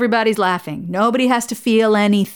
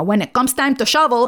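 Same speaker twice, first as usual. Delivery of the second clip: mock heavy Colombian-accented English; Mom's heavy Colombian accent; 3 semitones higher than usual. Daughter mimicking Mom's butchered idioms, heavy Colombian accent. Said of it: "she spoke with a really heavy accent".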